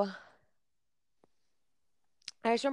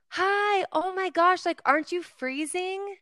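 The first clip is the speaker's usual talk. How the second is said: much higher, excited pop-star voice, slower on the question; imitating a pop star; 12 semitones higher, slower than usual. Fan retelling a pop star greeting her, squealing high impression. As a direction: gush it way up high like the star. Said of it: "She's like".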